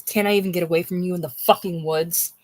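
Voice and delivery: breathless whisper on "fucking woods"; whispered film quote. Retold or imitated. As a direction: hiss the film line with "fucking" leaned on. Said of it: "Kate says".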